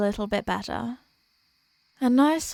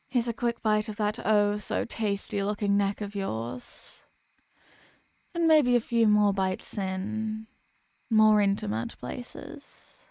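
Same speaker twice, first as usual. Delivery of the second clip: seductive murmur. Acted. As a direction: draw it out slowly to tempt them. Asking to bite partner's neck.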